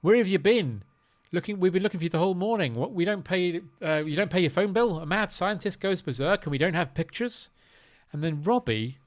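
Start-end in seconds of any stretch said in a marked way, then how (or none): 0.0-7.5 imitating a ranting editor. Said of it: "he says to him".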